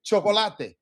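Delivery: chocolate as cho-co-la-te, four clear vowels; Spanish syllable-timed chocolate. Shown as a demonstration. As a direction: sound out every vowel in chocolate. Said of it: "what you see is what you get".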